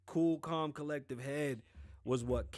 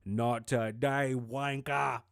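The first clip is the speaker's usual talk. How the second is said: defiant retort; 7 dB louder, much slower than usual. Retold or imitated. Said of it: "he goes".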